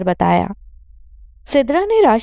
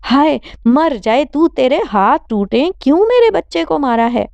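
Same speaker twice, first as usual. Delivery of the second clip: high, shrill-edged angry curse; cursing mother; 5 semitones higher than usual. Acted. Mother cursing daughter for hitting her son, angry and high. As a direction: lash out at the daughter.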